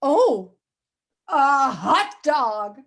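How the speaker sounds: put-on crazy American accent. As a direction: read the pigeon story in an over-the-top American accent. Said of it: "I used to do it with a very crazy American accent".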